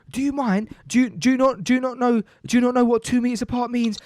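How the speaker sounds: mock indignant, stumbling into the scolding; indignant confrontation. Man confronting a woman over two meters, indignant.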